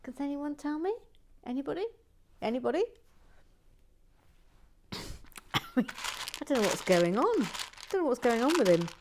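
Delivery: loud high bewildered plea; exasperated calling out. Real, not acted. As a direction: call out to anyone listening. Calling out in mock bafflement.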